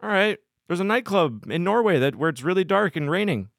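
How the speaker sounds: high, eager "let's go"; excited. Retold or imitated. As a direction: pump it up like a hyped DJ. Mimicking DJ touring energy.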